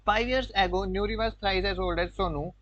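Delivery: slow, word-by-word reading of the question; slow dictation. Shown as a demonstration. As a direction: read it out slowly for students to copy. Teacher reads question aloud slowly. (धीरे-धीरे शब्द-शब्द पढ़ना)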